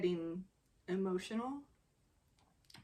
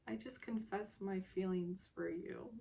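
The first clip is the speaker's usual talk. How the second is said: quiet confession; 5 dB quieter than usual. Retold or imitated. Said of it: "he just sort of quietly".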